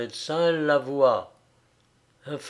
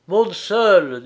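higher, louder order; urgent instruction; 5 semitones higher, 8 dB louder than usual. A narrator's reading. Agitated friend sends Frédéric upstairs alone, urgent. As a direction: send him up in haste.

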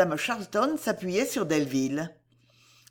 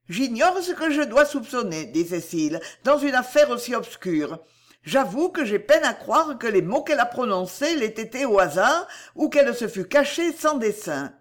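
higher, doubtful lady; Cécile, wary; 4 semitones higher than usual. Acted. Cécile answers Delville's accusation, higher and wary. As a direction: answer with guarded suspicion.

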